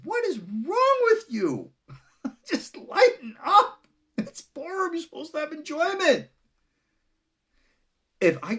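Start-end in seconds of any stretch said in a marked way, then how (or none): 0.0-6.3 laughing. Retold or imitated. Laughing at offended readers. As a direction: chuckle as you tell them to lighten up. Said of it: "And I said".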